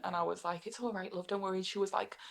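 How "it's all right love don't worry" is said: reassuring. Retold or imitated. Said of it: "stayed in accent".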